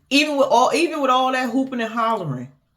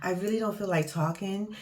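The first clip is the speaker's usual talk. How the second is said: bored sigh; 5 dB quieter, faster than usual. Retold or imitated.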